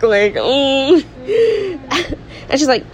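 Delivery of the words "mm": drawn-out, high-pitched "mm"; high mock grunt. Friend mocking a jealous man's reaction, high mock grunt. Mocking a character's disapproving noise.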